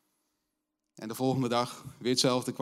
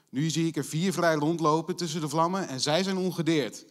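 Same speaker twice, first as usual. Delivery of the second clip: louder and higher, a king shouting in alarm; 5 semitones higher, 8 dB louder than usual. Acted. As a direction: call it out as the startled king. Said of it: "schreeuwde Nebukadnezar".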